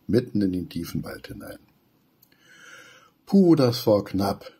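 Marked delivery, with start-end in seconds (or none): 3.2-4.5 slow, out of breath after running; panting. Acted. Flinki after the escape, panting and winded. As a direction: gasp it out, winded. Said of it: "keucht Flinki".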